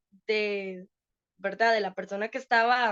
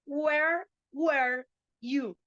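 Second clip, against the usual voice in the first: mock-cross, drawn-out question; slow, each word set apart in mild annoyance; angry teacher; much slower than usual. Teacher scolding students who showed up late, mildly cross. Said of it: "Ya, brava. Chivísima la teacher".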